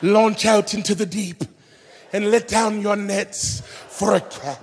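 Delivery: a hint of a posh British Jesus; British accent. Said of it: "Jesus hit him with the British accent".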